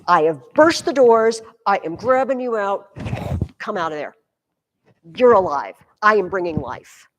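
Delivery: lightly voiced conquering rescuer, punchy bursts; a hint of a commanding liberator; triumphant Christ. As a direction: proclaim the rescue with loud, emphatic hits. Voicing Christ storming the underworld.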